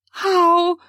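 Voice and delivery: high, startled stammer. A narrator's reading. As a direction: blurt it out flustered. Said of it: "I stammered".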